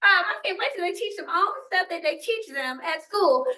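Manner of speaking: hammed-up parent sighing for school to fix the kid; mock eager parent. Parent at the teacher conference, mock eager and whiny. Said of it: "parents are like".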